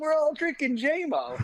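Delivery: very high, loud yelled delivery. Retelling a man in a Viking hat handing out Jameson: imitating a man yelling. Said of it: "he yells".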